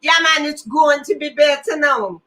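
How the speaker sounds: light mock Jamaican lilt; Jamaican accent. Host practises her intro, playful Jamaican accent. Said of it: "say it in a Jamaican accent".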